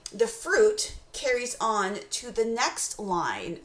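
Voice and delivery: fruit drawn out, the line slow; stress on fruit. Shown as a demonstration. Teacher showing enjambment stresses fruit, slowly. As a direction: linger on fruit and let the line run on slowly. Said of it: "gives emphasis to the word fruit".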